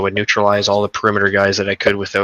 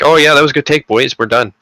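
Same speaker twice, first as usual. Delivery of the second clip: lazy voice actor; 6 semitones higher, 5 dB louder than usual. Retold or imitated. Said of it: "And then they were like".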